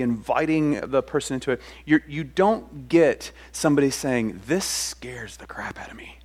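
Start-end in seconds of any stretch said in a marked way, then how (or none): 4.5-6.2 whispered, hushed confession of fear; scared whisper. Pretend. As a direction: breathe it out like a secret. Imagined frightened reply to God.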